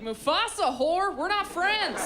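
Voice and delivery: slow, loud, scornful putdown; a roommate snapping at her yoga flatmate; hostile dismissal. Retold or imitated. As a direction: shut her down slowly. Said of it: "I'm like".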